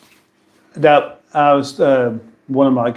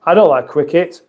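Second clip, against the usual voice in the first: Paul Calf. Retold or imitated. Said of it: "Paul Calf".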